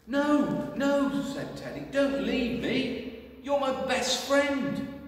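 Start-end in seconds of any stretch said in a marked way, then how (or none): 0.1-1.2 high, loud pleading no; upset little bear. Acted. Teddy pleading with Clive not to go, high and loud. 1.9-5.0 high, slow, loud plea; pleading little bear. Acted. Teddy begging his best friend Clive, high slow plea.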